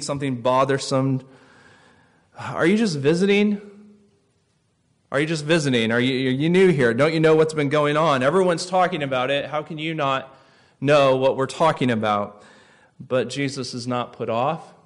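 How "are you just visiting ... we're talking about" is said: weary exasperation. Retold or imitated. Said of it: "probably with some weariness".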